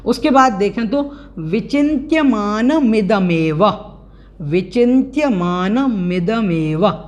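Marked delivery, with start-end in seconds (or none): 1.4-3.8 विचिन्त्यमानमिदमेव drawn out as one joined word; careful pronunciation. Shown as a demonstration. Teacher modelling a long compound, careful विचिन्त्यमानमिदमेव. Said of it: "इस प्रकार से उसका उच्चारण". 4.4-7.0 विचिन्त्यमानमिदमेव slowly, with long मा and मे; correct pronunciation. Shown as a demonstration. Teacher showing students how to say it, measured विचिन्त्यमानमिदमेव. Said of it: "इस प्रकार से उसका उच्चारण करना है".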